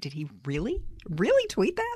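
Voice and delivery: mock disbelief. Host retelling his reaction to a tweet, incredulous. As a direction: act out a stunned double take, pitch shooting up on the repeat.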